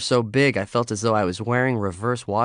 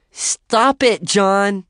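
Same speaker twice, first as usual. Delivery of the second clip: squealing; 11 semitones higher, 8 dB louder, much slower than usual. Acted. Squealing with laughter.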